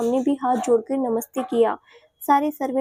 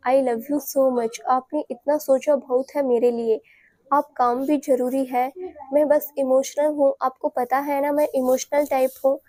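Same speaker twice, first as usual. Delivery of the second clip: a loving wife telling her husband she loves him, lightly voiced; lovingly. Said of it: "प्यार से बोली".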